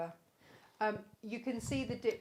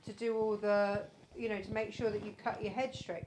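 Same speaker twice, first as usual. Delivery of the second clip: quoting wife; 3 semitones higher, 5 dB louder than usual. Retold or imitated. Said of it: "Lisa came out and said".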